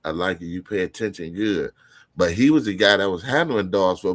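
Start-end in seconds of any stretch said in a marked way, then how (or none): 0.0-1.7 imitating the dog handler. The handler at the show coaching him, lightly voiced. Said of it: "That's all he kept saying".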